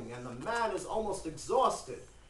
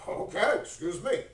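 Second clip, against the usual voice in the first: louder, put-on huffy retort; mock offended; 4 dB louder than usual. Old man thrown out by Abraham, mock offended. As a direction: take exaggerated offence.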